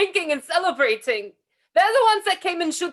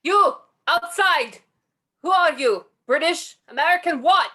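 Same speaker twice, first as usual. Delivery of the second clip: mild yell to someone outside; demanding call, only lightly raised. Acted. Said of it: "yells in English to the outside".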